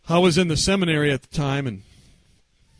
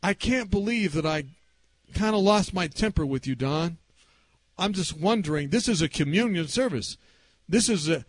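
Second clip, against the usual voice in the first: mildly acted, earnest grandfather; remorseful apology; 2 semitones higher than usual. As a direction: apologize haltingly, with pauses, asking forgiveness. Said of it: "His oh, no was".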